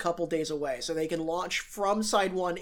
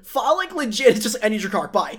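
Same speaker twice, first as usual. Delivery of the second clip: excited retelling; 4 semitones higher, 6 dB louder than usual. Retold or imitated.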